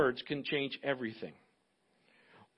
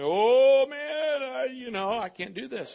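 higher, a lightly voiced worried introvert; mock anxious introvert; 7 semitones higher, 3 dB louder, slower than usual. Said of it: "man, you're like".

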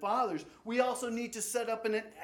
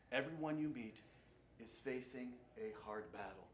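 "Everyone you meet" set apart, then "is facing a hard battle" softer; quiet emphasis; 7 semitones lower, 10 dB quieter than usual. Shown as a demonstration. Preacher pressing the quote home to the congregation, softer. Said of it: "Be kind".

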